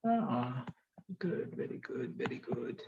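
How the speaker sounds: very soft, low, half-whispered approval; murmuring to self. Real, not acted. Teacher looks around at the faces, murmuring to self. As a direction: barely voice it, under your breath.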